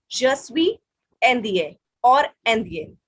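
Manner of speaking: indien or indien said slowly, both endings set apart; careful contrast. Shown as a demonstration. Teacher showing class masculine and feminine forms, slow. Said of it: "teacher contrasts two forms".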